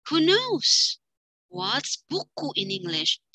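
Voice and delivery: high, slow teacher question; quiz question. Shown as a demonstration. Teacher quizzing class on a word, high and slow. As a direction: tease out the translation. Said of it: "Kalau kita nanya terjemahannya".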